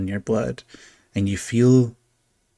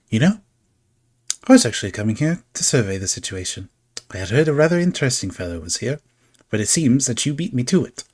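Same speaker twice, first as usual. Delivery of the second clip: lightly voiced playful showman, quick and airy; a sly trickster greeting the party, a touch theatrical; whimsical stranger; faster than usual. GM voicing a carnival figure to the party, lightly playful.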